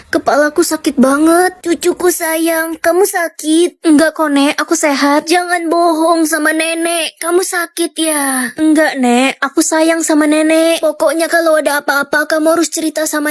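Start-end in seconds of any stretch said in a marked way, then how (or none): 1.6-8.5 slow gentle grandma. Acted. Grandma questions sick grandchild.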